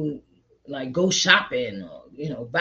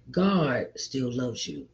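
slow tender reassurance; 4 semitones lower, 5 dB quieter, much slower than usual. Real, not acted. Comforting listeners who made mistakes.

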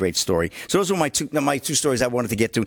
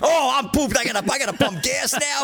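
mock exhausted whine; 8 semitones higher than usual. Mocking the guy driving forty-two miles.

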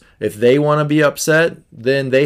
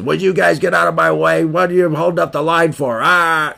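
higher, put-on grumpy man voice, mock outburst; Mister Joe Angry; 6 semitones higher than usual. Angry man in the checkout line yelling at Jack and Jill, hammed-up rant. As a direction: ham up a cranky customer losing it. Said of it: "Mister Joe Angry ... He says".

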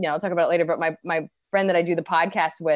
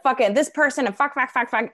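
higher-pitched mock rant; worked-up venting, played for laughs; retold rant; 6 semitones higher than usual. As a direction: imitate yourself ranting in a string of curses. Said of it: "I'll be ranting to my little sister".

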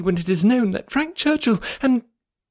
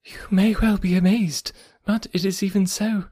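eager; 9 semitones higher than usual. Acted. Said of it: "talking on with eagerness".

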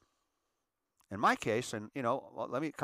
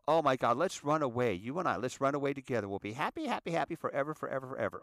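higher, giddy first-love voice; dreamy teen lover; 3 semitones higher than usual. Retold or imitated. Teen begging first love to run away, giddy. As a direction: gush like a lovestruck teen.

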